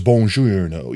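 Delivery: "Buongiorno" with rolled Italian lilt; attempted native Italian greeting; Italian accent. Shown as a demonstration. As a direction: try to sound Italian. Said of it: "I did both of those terribly".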